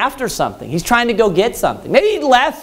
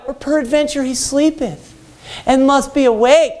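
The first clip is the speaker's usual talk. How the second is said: mild mock taunt; 3 semitones higher than usual. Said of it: "he's like".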